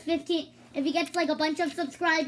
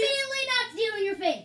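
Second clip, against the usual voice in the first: toy voice; 7 semitones higher, faster than usual. Pretend. Kid voicing Lego figure.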